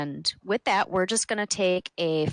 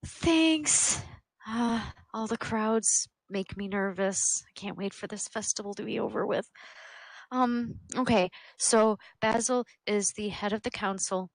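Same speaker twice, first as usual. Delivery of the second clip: put-on higher, nervous young guard; 4 semitones higher than usual. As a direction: play the jittery young guard. Guard answers player in character.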